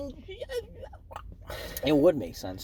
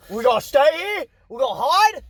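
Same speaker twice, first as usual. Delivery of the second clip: nervous droid voice; 8 semitones higher, 6 dB louder than usual. Retold or imitated.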